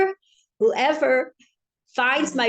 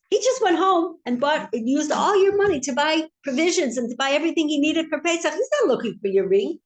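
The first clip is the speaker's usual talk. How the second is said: higher, indignant tattletale; lightly acted indignant accusation; tattling informer; 6 semitones higher than usual. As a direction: report it to the king, higher and eager. Informer tattles on neighbor to king.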